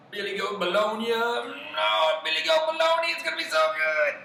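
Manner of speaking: very high, excited squeal; gleeful troll. Acted. Troll dreaming of his next meal, squealing with glee. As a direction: work up to a high, greedy squeal.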